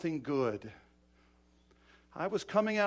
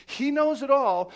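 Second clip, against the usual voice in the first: loud, slow, raised declaration; forceful preaching; 4 semitones higher, 10 dB louder than usual. Real, not acted. Preacher on God seeing every hurt, forcefully. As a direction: drive it home slowly at full voice. Refrain repeated at full force.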